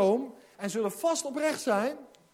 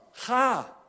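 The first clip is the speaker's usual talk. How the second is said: commanding go; 3 semitones higher, 4 dB louder than usual. Acted. God's command.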